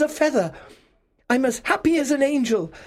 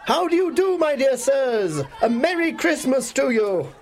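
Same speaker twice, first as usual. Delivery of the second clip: very high, louder, laughing welcome; exuberant greeting; 4 dB louder than usual. A narrator's reading. Scrooge greets the two gentlemen, exuberant. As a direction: hail them with high-pitched joy.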